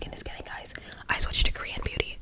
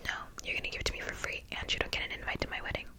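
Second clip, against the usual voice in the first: mimicked demand; 12 dB quieter, faster than usual. Mimics bride's demand to the dressmaker.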